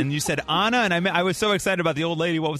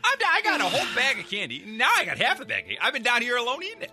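Larry David as Pennywise; 4 semitones higher than usual. Acted. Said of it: "You're Larry Dave it".

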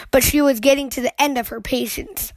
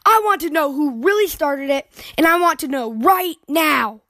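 firm demand; 4 semitones higher than usual. Acted. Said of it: "put her foot down".

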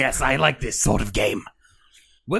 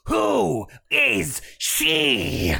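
drawn-out shout; much slower than usual. Acted. Character shouting a question.

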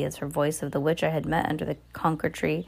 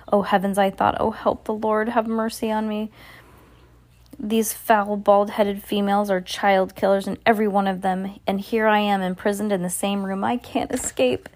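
panicked thoughts; 4 semitones higher than usual. Acted. Narrator's panicked inner thoughts.

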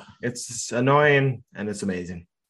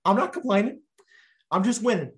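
smug; 5 semitones higher than usual. Real, not acted. Gloating after trade banter.

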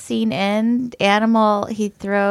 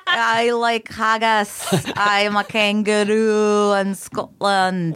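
put-on slow, stretched comic Scottish accent; Scottish kangaroo; slower than usual. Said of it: "what would that Scottish kangaroo sound like".

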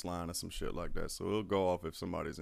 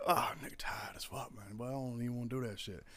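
lightly voiced lazy complainer, quick and soft; mocking tired whiner; 3 semitones higher, 4 dB quieter than usual. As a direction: toss it off like a lazy recruit whining. Mocking tired guys at fire guard.

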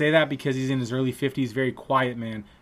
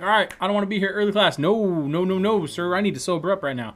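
louder, higher, quickened plea; mock pleading; 5 semitones higher, 3 dB louder than usual. Drunk student to teacher, begging off class, pleading. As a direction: act out a rushed, pleading no.

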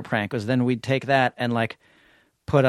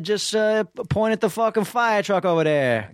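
high mock voice; 8 semitones higher than usual. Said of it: "I said".

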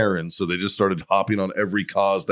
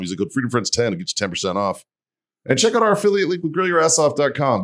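ad read. Acted. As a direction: pitch the sponsors cheerfully. Reads the sponsor ads.

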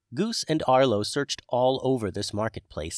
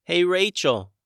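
mild yell; 8 semitones higher, 7 dB louder than usual. A narrator's reading. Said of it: "he yelled".

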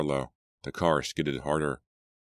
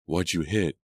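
shrill cry. A narrator's reading. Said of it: "Jillian cried shrilly".

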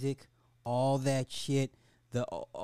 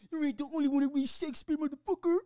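mock villain quote; 9 semitones higher, much faster than usual. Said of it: "took turns stabbing him".

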